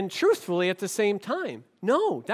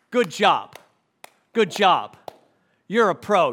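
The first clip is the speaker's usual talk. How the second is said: sarcastic praise; 3 dB louder than usual. Retold or imitated. Sarcastic praise of evasive host.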